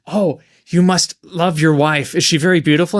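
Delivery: a hint of an unsettling stranger fishing for answers; creepy Mister Baynard. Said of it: "and he says".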